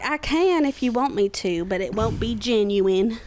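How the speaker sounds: lightly hammed-up Southern accent. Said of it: "don't always have southern accents".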